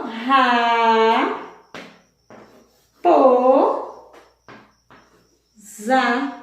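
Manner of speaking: "ra, po, za" in three separate drawn-out beats; long pauses between "ra", "po" and "za"; split into syllables. Shown as a demonstration. Teacher dividing raposa for pupils, syllable by syllable. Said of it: "ela foi dividida".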